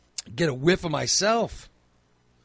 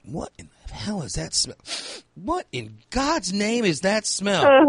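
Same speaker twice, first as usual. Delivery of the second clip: disgusted exclaim; 6 semitones higher, 4 dB louder than usual. Retold or imitated. Mock disgust at cafe smell.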